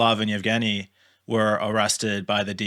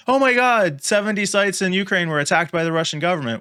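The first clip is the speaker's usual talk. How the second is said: mock alarm; 7 semitones higher than usual. Hosts mocking the press, high mock shock. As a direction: fake gasp of outrage at the news.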